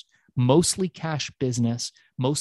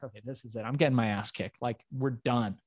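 resigned inner thought; 3 semitones lower, 6 dB quieter than usual. Retold or imitated. Inner thought, expects beating.

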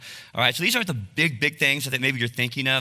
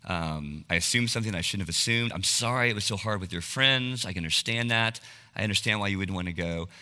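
mildly contrite, lower at the start; retold apology; 4 semitones lower, 3 dB quieter than usual. Dad apologizing to daughter next morning, understated and contrite. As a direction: gently own up, quietly retelling an apology. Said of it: "I got up and I apologized".

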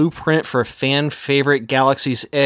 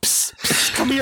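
hissed psst, then a higher beckon; stage whisper; 11 semitones higher, 3 dB quieter, slower than usual. Retold or imitated. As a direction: call them over in secret. Secretive ticket seller beckons.

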